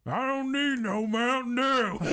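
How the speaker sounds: loud, slow, high strained imitation; straining man winding up. Husband answering through the bathroom door, mock strained holler. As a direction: drag it out as a labored holler. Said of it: "I can hear him winding up to talk".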